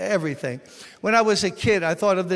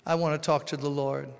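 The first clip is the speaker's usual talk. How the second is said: hushed prayer; 2 semitones lower than usual. Retold or imitated. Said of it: "spiritual giant who said".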